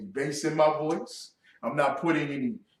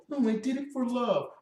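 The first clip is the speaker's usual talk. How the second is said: higher, mock-pleading lover; mocking excuse; 6 semitones higher, 4 dB quieter than usual. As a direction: parrot the excuse in a high mocking voice.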